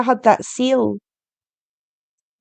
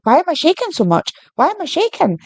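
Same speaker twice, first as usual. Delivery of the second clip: mildly panicked questioning, pitched higher; retold freak-out; 6 semitones higher than usual. Telling a friend about the seal, mock freaking out. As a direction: recount your own bewildered alarm in a higher pitch. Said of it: "I was freaking out".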